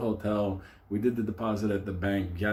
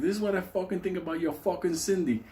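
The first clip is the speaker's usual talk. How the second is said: higher-pitched imitation of a furious man; mock angry outburst; 8 semitones higher than usual. Angry cow threatening the doll with his pen, mock fury. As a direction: spit it out in mock rage. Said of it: "the cow fucking takes out".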